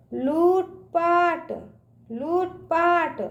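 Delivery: slow लूटपाट, लू held long; drawn-out long ū. Shown as a demonstration. Teacher drilling children, लूटपाट with long ū. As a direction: stretch out लूटपाट syllable by syllable. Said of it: "इसका उच्चारण ना खींच के करते हैं".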